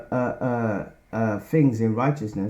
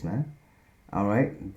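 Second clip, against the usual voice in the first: ordinary delivery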